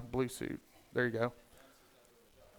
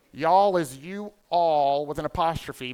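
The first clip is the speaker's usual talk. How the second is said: slow, spaced-out "you all", each word set apart; word-by-word explanation; 4 dB louder than usual. Shown as a demonstration. Southerner teaching the crowd about y'all, slow explanatory stress. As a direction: draw out "you" and "all" separately. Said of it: "there's a subtle difference between y'all and all y'all".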